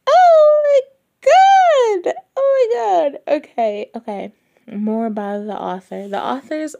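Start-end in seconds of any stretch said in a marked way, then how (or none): 0.1-3.4 very high, loud oh my god; ecstatic shriek. Real, not acted. Fan discovering the sequels, shrieking with joy. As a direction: shriek with delight. Discovering more books by author.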